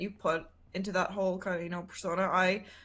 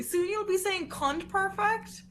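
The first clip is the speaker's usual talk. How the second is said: mock coaching voice; 10 semitones higher, slower than usual.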